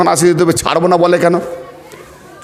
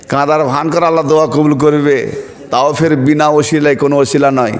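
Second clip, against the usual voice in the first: ordinary talk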